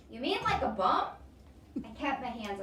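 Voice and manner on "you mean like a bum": put-on higher and louder little boy question; a kid blurting it out. Toby asks.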